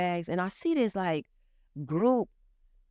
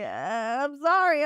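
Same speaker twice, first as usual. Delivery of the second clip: squeaky, much higher and louder sorry; timid high-pitched apology; meek apology; 7 semitones higher, 4 dB louder than usual. Retold or imitated. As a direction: sound small and guilty to the boss. Waking her agent to cancel.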